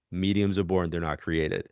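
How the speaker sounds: level, unmoved restatement; deadpan repetition. Retold or imitated. Colleague looking her in the face, repeating it deadpan. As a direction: say it dead straight, no give at all. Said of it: "looked me dead, deadpan in the face".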